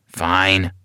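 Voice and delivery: low, reluctant grumble; grumbling. Acted. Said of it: "grumbled Jack".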